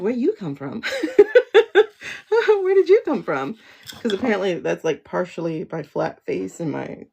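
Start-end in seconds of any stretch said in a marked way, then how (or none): 0.0-0.8 asked through a laugh; laughing at her own question. Retold or imitated. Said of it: "And I'm like". 0.8-3.6 much higher, louder, laughing through it; giggly high squeal of a question. Retold or imitated. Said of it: "And I'm like".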